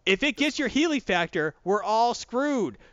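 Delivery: high, hammed-up gruff Wolverine growling at the team; lightly voiced Wolverine grumbling at his team; mock Wolverine. Wolverine grumbling at the X-Men, hammed-up gruff. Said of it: "And then it's like".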